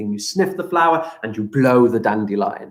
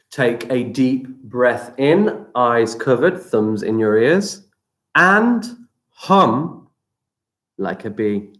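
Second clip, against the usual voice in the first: guided breathing; slower than usual. Acted. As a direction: guide the breath calmly, stretching words. Leads breathing exercise.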